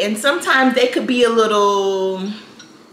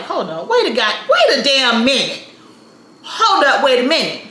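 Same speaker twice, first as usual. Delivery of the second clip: alarmed disbelief; 3 semitones higher than usual. Retold or imitated. Woman realizing her car is missing, alarmed disbelief. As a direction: stop everything in mock alarm.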